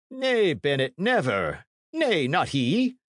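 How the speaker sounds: high, emphatic character denial; priest's firm denial. A narrator's reading. Priest firmly rejects Hatch's suggestion.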